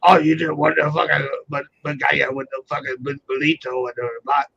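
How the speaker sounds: garbled Cajun mumbling; Cajun imitation. Co-host mimics Louisiana speech for friends, garbled Cajun mumble. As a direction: mumble nonsense like a mock Cajun. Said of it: "It's like".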